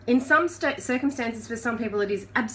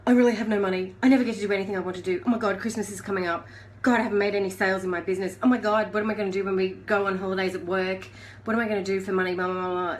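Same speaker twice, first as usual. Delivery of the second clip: panicky rant; faster than usual. Acted. Acting panicked inner voice.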